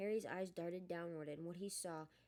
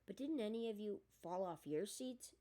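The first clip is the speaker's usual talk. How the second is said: awkward; 3 semitones higher than usual. Acted. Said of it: "said Harry awkwardly".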